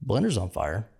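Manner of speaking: calmly announcing a fire; lightly imitated dead-calm report; chillest voice. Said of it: "in the chillest voice you can imagine".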